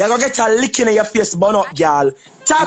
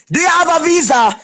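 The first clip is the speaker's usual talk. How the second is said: shouted repeat; 4 semitones higher than usual. Real, not acted. Repeating her question to a rival, now shouted. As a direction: shout the question again so it lands.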